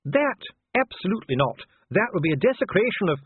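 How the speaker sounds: very high, indignant refusal; outraged dwarf. A narrator's reading. Dwarf refusing the corporal's presence, outraged. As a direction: burst out high, then protest until cut off.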